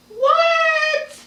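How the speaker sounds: squeaky high "what?" of shock; stunned disbelief. Real, not acted. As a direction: gasp out the word in disbelief. Stunned at her own profit.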